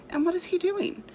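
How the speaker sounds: a hint of an excited child; eager boy. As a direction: ask like a curious young boy.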